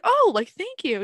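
mock-flattered high thank you. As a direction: coo it sweetly.

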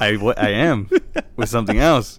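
lightly voiced son, a bit loud; understated son impression; Lou. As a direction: answer back as the son. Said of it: "That's our Martha and Lou impression".

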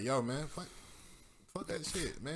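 rising, bewildered yo-man rant; exasperated outburst. Retold or imitated. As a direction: sputter in disbelief. Acting out his own reaction.

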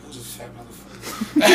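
breathy laughing mock line. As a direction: say it through a laugh. Voicing a rapper's look.

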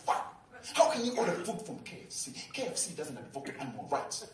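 mock outraged girlfriend quote, mildly indignant; pissed off. Vegan woman scolding him over his KFC order, mock pissed off. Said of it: "she was super pissed".

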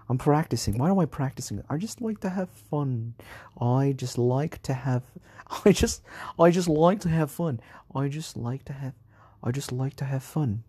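playful, lilting fake British accent; practicing a British accent for fun. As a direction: toy with a put-on British accent, pitch swinging up. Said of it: "in my British fake accent".

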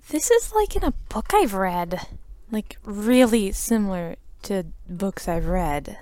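a hint of a bewildered girl; Sophie voice. Sophie, blinking at the inn sign, speaks in a lightly dazed voice. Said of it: "Sophie just blinks and is like".

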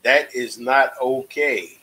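slow, gentle therapist voice; soothing counselor tone, unhurried; calm crisis counselor. Pretend. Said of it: "I'ma say it like a therapist would say".

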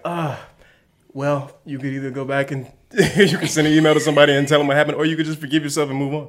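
rapid, lightly voiced therapist advice; fast therapist voice. S1 imitating her therapist giving quick advice, fast. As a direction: rattle off the therapist's sensible options. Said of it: "My therapist would have been like".

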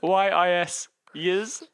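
yous spelt Y I S, then said as "yiz"; spelling out yous. Shown as a demonstration. Host spelling the email's word yous for his cohost, said as "yiz". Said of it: "For yous?".

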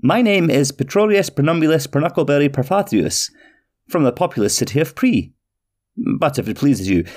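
a small fussy stranger proudly giving his name; fussy little man. Acted. Petrie introduces himself.

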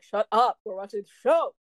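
acted-out impatient dismissal; annoyed brush-off. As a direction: shush him over the TV. Family brushing off eager Rami.

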